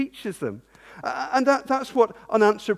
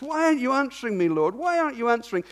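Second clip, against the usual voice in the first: raised pitch, pressing plea to God; David demanding an answer in prayer; pleading complaint; 7 semitones higher, 3 dB louder, faster than usual. Acted. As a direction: put the question to God urgently.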